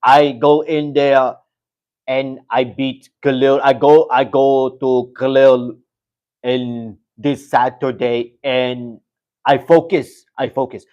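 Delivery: slow, flat robot-like fighter voice; a light mock of a calm, robotic fighter; slowly, like a robot reading a promise; imitating Jerry Prochazka. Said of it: "comes out like his normal self, like a fucking robot".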